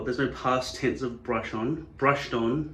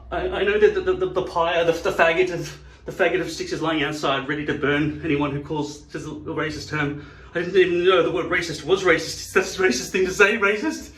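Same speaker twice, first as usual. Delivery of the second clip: raised, stammering mock fright; flustered panic; 4 semitones higher, 4 dB louder than usual. Accused guest fearing the pyre, mock-panicked stammer. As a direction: stumble loudly through a worried excuse.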